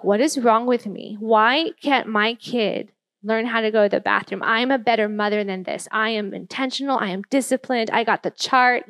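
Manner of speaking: understated self-reproach; retold inner frustration, mildly exasperated; frustrated. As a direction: question yourself, then insist on your own worth. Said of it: "I just felt all this frustration".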